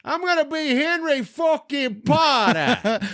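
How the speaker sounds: high, slow, drawn-out holler; hammed-up announcer-like yell; triumphant shouted reveal. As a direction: holler the big reveal, stretching each word. Gleeful reveal of his costume.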